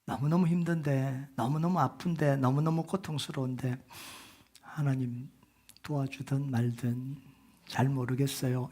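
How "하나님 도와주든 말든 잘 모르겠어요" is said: much softer, listless half-hearted prayer; mock a lukewarm believer; limp indifferent prayer. Pastor mocking a lukewarm prayer, listless. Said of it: "이러고 있을 수 있나요".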